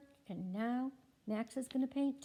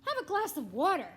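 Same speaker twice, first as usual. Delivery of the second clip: voicing Max; 7 dB louder, faster than usual. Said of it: "says Max".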